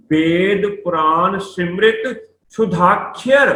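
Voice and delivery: slow, measured verse reading; scripture recitation. Shown as a demonstration. Teacher reciting Gurbani to students, slow recitation. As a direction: draw out each word carefully.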